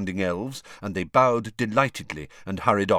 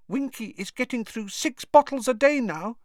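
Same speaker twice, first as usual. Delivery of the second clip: whispered. A narrator's reading. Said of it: "Dobby whispered to Harry".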